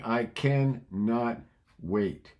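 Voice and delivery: "I cannot wait" drawn out word by word; stretched, pointed "I cannot wait"; slow emphatic quote. Shown as a demonstration. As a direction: spell out "I cannot wait" slowly. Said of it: "You're saying".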